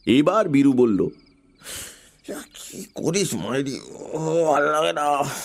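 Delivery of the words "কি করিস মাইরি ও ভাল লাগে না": sleepy grumble. A narrator's reading. Nephew woken grumbling.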